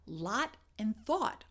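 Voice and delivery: "lot" with ah, "thought" with rounded aw; two distinct vowels. Shown as a demonstration. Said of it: "are two different sounds".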